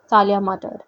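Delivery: ordinary delivery, nothing marked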